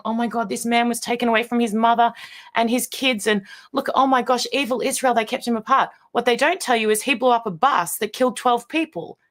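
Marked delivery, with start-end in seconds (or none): 0.0-5.9 higher, gushing mock outrage from a naive viewer; mock gullible viewer. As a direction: play a viewer swallowing the story whole. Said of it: "your heart's going".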